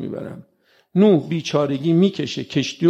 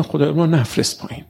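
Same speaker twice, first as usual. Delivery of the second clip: pleading verses. Acted. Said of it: "گفتن".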